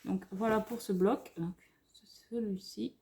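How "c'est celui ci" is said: quick hushed aside; whisper. Real, not acted. Vlogger showing the pad, whispered aside. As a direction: breathe it without voice.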